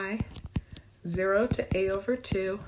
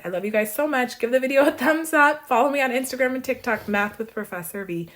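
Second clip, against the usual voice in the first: loud, upbeat sign-off; excited outro; 6 semitones higher, 6 dB louder than usual. Real, not acted. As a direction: pump up the viewers for the outro. Upbeat outro call to action.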